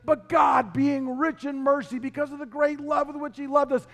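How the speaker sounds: high, hurried recital; Paul dictating excitedly. Acted. Paul reciting to a scribe from jail, high excited dictation. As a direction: recite in a rising rush, lightly acted. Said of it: "he's reciting this to somebody to write down".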